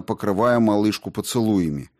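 usual speaking voice

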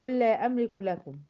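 قل لا joined on one long doubled L; lam merged into lam. Shown as a demonstration. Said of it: "أضغمت في اللام بتاعت لا".

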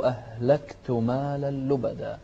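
"أهلكت مالا لبدا" مع قلقلة واضحة ومد; اقرأ "أهلكت" بقلقلة صحيحة; تلاوة صحيحة. Shown as a demonstration. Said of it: "يقول". (قراءة المعلم الصحيحة)

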